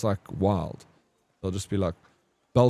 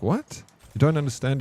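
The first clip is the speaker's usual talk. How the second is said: shocked disbelief; 6 semitones higher than usual. Retold or imitated. Telling the Kenyan guy he can't follow, with retold surprise. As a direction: pitch jumps up on What, mock shock. Retelling his shocked reply.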